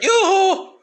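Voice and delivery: sing-song taunting call, way up high; shrill cartoonish yoo-hoo; mocking yoo-hoo.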